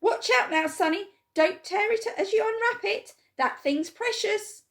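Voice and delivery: high, loud and frantic; excited shouting. A narrator's reading. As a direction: rush the words out in joy.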